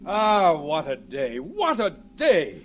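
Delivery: slow, savouring sigh; husband savouring the day, slow and content. Acted. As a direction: drawl it out like a man pleased with life. Husband sighs contentedly on drive.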